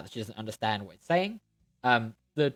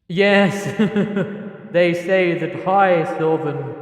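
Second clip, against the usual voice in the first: louder, slow, amused ancient voice; chuckling tree lord; 3 semitones higher, 6 dB louder, slower than usual. Acted. Tree Lord amused by Hera's ignorance, chuckling. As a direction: chuckle then speak grandly. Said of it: "gives a chuckle and will say".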